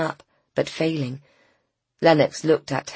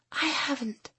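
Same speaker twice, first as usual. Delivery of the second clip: breaking off; 10 semitones higher, 8 dB quieter than usual. A narrator's reading. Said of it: "Kate started and then stopped again".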